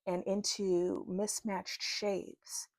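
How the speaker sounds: slow, deliberate read-aloud; spoken message, paced phrase by phrase; reading a channeled message. Real, not acted. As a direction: read it out in measured phrases with pauses.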